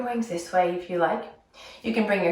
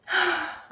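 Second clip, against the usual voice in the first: sad frog sigh; 10 semitones higher, 4 dB quieter than usual. Acted. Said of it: "very sad".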